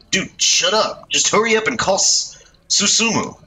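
bossy delinquent ordering his pal; cocky street punk. Acted. Youth in red bossing his companion, brash punk voice.

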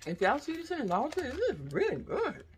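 talking through a mouthful of candy; mouth full. Real, not acted. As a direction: speak while chewing, mouth full. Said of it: "Sorry for talking with my mouth full".

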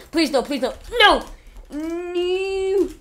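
high, loud desperate no; anguished denial. Real, not acted. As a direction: refuse the loss in anguish. Losing fight to enemy.

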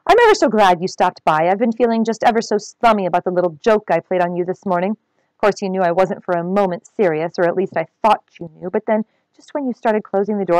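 lightly affected, airy politeness; fanciest tone. Acted. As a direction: play the haughty lady, just a touch. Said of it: "said in her fanciest tone".

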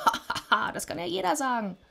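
scornful acted laugh into high, quick words. A narrator's reading. Sisyphos laughs at Death's claim, scornful laughing. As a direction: laugh it off, then speak high and fast. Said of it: "Sisyphos lachte".

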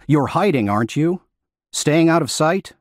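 tense hiss, probing, rising; hissing and anxious. Acted. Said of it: "hissing and anxious".

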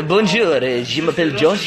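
second go at put-on French; French accent. Shown as a demonstration. Retrying after being teased about the accent, exaggerated French. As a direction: push the French accent harder. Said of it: "French, bonjour".

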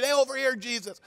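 high, eager calls; yelling to Jesus. Acted. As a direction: wave him down with your voice. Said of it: "They're yelling".

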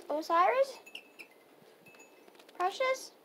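high calling voice; calling a cat. Real, not acted. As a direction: call each cat in turn. Calling cats by name.

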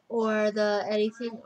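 talking through a yawn. Real, not acted. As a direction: yawn while speaking. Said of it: "I'm yawning".

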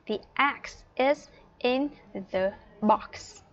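slow, separated words for learners to repeat; unhurried English with clear gaps; teacher's model sentence. Shown as a demonstration. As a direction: model it slowly, word by word.

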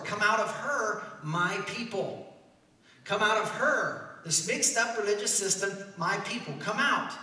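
loud, slow, drawn-out preaching call; crying out. Acted. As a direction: cry it out to the people, stretching the key words. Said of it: "this person is crying".

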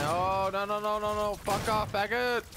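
furious yelling at the screen; raging gamer. Real, not acted. Gamer raging at being killed.

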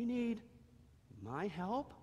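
can't believe he's needed; little donkey. Acted. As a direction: Howie asking Jesus. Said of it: "Howie asked".

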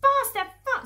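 very high, loud urging; frenzied shouting. Acted. Fat Boggis driving the diggers madly, frenzied shout. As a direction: shout like someone hopping in a frenzy. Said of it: "hopping about like a dervish and shouting".

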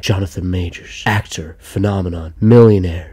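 low, mock-portentous TV announcer; hammed-up low voiceover, word by word; cringe voiceover parody. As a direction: list each title like a trailer narrator. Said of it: "voiceover is so cringe and embarrassing".

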